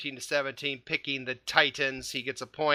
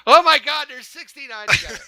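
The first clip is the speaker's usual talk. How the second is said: surprised; 9 semitones higher, 11 dB louder than usual. Retold or imitated. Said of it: "I went".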